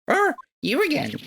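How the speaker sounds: put-on creaky little old lady greeting; a sweet old granny, lightly done. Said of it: "where's my grandma voice".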